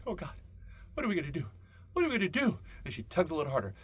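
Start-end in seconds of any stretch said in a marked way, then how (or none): 0.0-2.6 mock panic, rising to a yelp; hammed-up terrified whimper building higher; panicked wail. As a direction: pitch climbing into a frantic squeal. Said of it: "And I'm like".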